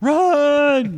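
high shouted run; sudden yell. Pretend. Mother screaming at her child to run, sharp yell. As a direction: bark it at the kid.

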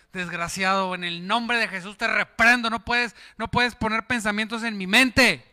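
loud, forceful rebuke; commanding preacher's rebuke; rebuking the devil. Acted. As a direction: cast him out with authority. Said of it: "levanto el escudo de fuego".

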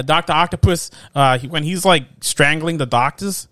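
accidental Boston-or-Long-Island accent; slipped-in Boston-like accent. Real, not acted. Explaining a film scene to a co-host, drifting into a Boston-like accent. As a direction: slip into a loose East Coast accent. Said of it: "why I'm doing that accent".

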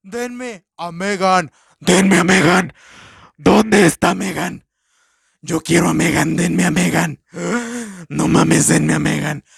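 mocking the girl who begs for her doll back; mock bratty girl. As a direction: whine and demand Megan like a spoiled kid. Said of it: "y dice".

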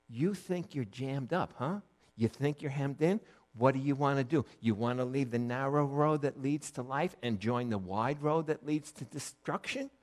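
softly retold gentle questioning; kind, not shaming. God gently questioning the man who felt hemmed in, kindly. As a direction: challenge kindly, without rebuke. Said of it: "he was just kind".

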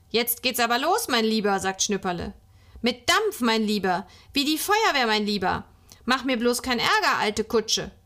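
lightly voiced little driver, lively and bossy; a touch of child's make-believe bravado; child playing driver. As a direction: egg the pretend car on with playful bursts. Child plays at driving the car.

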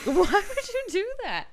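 mock shocked outcry; incredulous. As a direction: squeak it out in disbelief. Speaker's own reaction, acted out.

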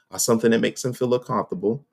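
sticky mouthful garbling the words; talking through peanut butter; mouth full of peanut butter. Real, not acted. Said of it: "I got peanut butter in my mouth".

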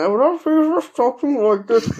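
talking around a cigarette; words through lips holding a cigarette; cigarette in mouth. Shown as a demonstration. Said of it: "with a cigarette in their mouth".

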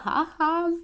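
high, spoken "ha, ha"; mocking laugh. A narrator's reading. Girl teasing the boy before slamming the door, mock laughing. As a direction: jeer with a high little laugh.

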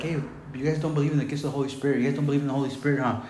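rattled off fast as a challenge; fast accusing patter with a questioning tag; mock accusation. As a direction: imitate a quick, accusing critic. Quotes an accuser challenging him.

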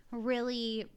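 usual speaking voice

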